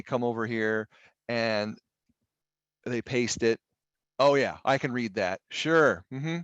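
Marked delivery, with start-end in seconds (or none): 4.2-6.4 sarcastic. Acted. Mocking an unreadable screenshot.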